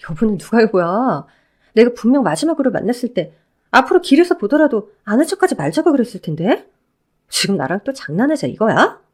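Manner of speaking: lightly voiced ex-wife, cold and scornful; a hint of a scornful woman cutting him down. Ex-wife rebuffing her ex-husband, lightly voiced cold scorn.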